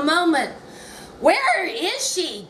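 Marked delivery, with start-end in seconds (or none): 1.2-2.4 a touch of impatience, drawn out slowly; mildly impatient director asking where she is. Retold or imitated. Impatient director waiting on the actress, mildly impatient. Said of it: "David said impatiently".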